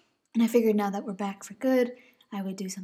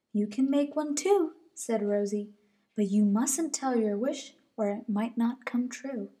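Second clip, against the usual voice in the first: little bunny. Acted. Rosie advises.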